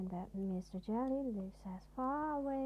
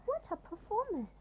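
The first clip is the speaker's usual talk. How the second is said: commanding scoff; 11 semitones higher, 3 dB louder than usual. A narrator's reading. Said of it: "commanded the worm".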